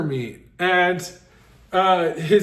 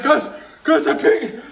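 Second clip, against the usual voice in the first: giggly alert; 7 semitones higher than usual. Retold or imitated. Alerting friends while tripping.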